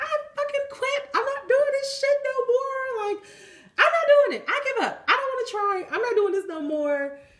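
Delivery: very high, furious, cussing angry yelling rant. Retelling being mad at God, imitating own cussing and yelling. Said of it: "I was cussing and yelling".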